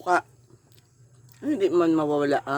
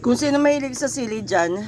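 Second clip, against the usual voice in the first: excited call-out; 7 semitones higher, 3 dB louder than usual. Real, not acted. Calling out to viewers.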